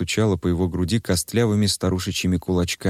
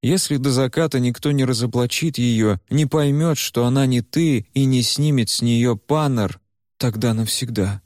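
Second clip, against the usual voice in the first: put-on a lightly raised, earnest young man's voice; Куйгарош; 5 semitones higher than usual. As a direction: talk to her gently but firmly. Куйгарош warns Varya. (спокойный, серьёзный голос Куйгароша)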